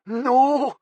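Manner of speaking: high panicked yell. A narrator's reading. Captive yelling at the taser threat, high and panicked. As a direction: scream no at the taser. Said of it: "Callum yelled".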